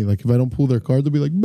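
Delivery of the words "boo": long drawn-out imitation boo; crowd boo. Bingo players when their card isn't pulled, mock boo. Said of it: "usually they boo me".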